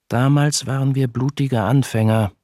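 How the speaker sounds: BLUTIGE leaned on with emphasis; stress on BLUTIGE. A narrator's reading. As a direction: hit the word blutige. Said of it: "mit Betonung auf blutig".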